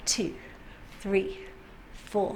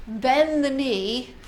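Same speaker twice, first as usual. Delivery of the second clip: slow demonstration; much slower than usual. Shown as a demonstration. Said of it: "So I'm gonna show you".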